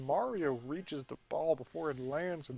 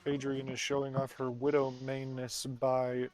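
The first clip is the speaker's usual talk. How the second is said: baseball announcer voice; 2 semitones lower than usual. Acted. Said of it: "I said that in my baseball announcer voice".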